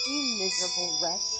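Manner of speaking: loud, snarling insult; furious shout. Acted. Woman cursing the traveller who slept, furious shout. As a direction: spit it at him in pure rage.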